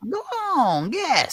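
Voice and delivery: high-pitched, pushy urging; insistent goading. Acted. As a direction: push him for an answer, voice way up. Host presses flustered guest.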